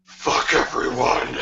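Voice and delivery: slow, strained throat-scream whisper as Sonic; gritty Sonic voice. Acted. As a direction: grit teeth and rasp it from the back of the throat. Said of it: "The Sonic voice makes me lightheaded".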